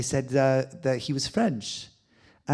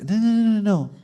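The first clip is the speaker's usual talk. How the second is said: high, loud insistent no; a loud emphatic denial; 10 semitones higher, 9 dB louder than usual. Real, not acted. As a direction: cut the doubt off firmly. Refusing patients' self-doubt.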